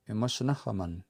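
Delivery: imasanahaman with a short "uh"-like last vowel; short final A. Shown as a demonstration. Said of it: "make that short A sound".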